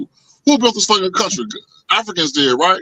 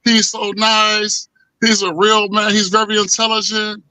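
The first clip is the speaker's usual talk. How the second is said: put-on gushing girlfriend; 4 semitones higher, slower than usual. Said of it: "She's like".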